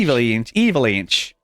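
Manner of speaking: Avalanche in a light Canadian accent; a hint of a Canadian accent on Avalanche. Shown as a demonstration. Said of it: "I was trying to get my Canadian accent out there".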